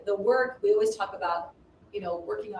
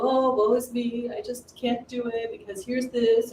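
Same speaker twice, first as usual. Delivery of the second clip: woe is me; 3 semitones higher than usual. Retold or imitated. Mock self-pity quote.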